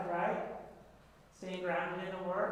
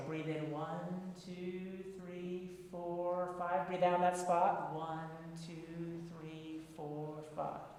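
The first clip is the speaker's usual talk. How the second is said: guided breath count; much slower than usual. Acted. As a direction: count them through the breathing calmly.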